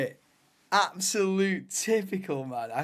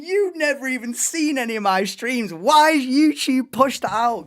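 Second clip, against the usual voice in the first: indignant retort; 5 semitones higher, 7 dB louder than usual. Retold or imitated. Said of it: "I'm thinking".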